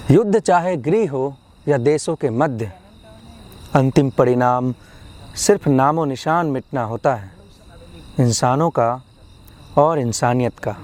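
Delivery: measured, solemn poetry reading; poem recitation. Acted. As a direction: recite an anti-war poem, pausing after each phrase. Recites own anti-war poem.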